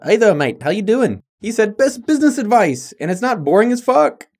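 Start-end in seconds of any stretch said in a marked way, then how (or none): 0.0-1.2 put-on a cheery, overdone Australian accent, pitched higher; mate-laden Aussie greeting, hammed up; a listener's hello in a mock Australian accent; bad Australian accent. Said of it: "my Australian accent isn't up to par". 1.8-4.3 put-on a cheery, overdone Australian accent, pitched higher; mate-laden Aussie greeting, hammed up; a listener's hello in a mock Australian accent; bad Australian accent. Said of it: "my Australian accent isn't up to par".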